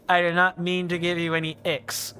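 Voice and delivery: debonair male voice. Acted. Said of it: "debonair male voice".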